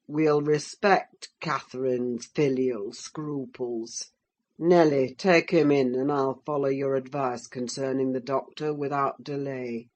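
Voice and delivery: a lightly voiced sneering landowner; Heathcliff voice.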